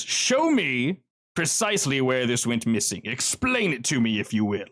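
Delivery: lightly voiced smug villain, unhurried; Kincaid's menacing drawl. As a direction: scold them slowly like a bored mob boss.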